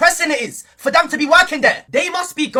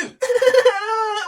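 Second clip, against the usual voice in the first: mock sobbing; 5 semitones higher than usual. Playing a bullied victim online, mock sobbing. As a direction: fake sobs, pitched up. Mocks a crying cyberbullying victim.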